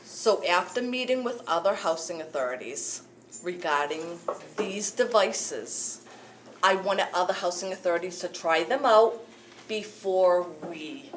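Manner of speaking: to someone hard of hearing. Real, not acted. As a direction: speak up so the back can hear. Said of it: "Talk louder, please".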